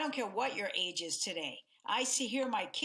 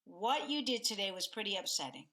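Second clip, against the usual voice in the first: calmer tone. Shown as a demonstration. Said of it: "as compared to".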